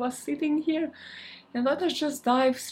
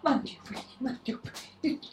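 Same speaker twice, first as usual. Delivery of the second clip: breathless counting mid exercise; out of breath; 3 semitones higher, 6 dB quieter, faster than usual. Real, not acted. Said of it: "Now I'm out of breath".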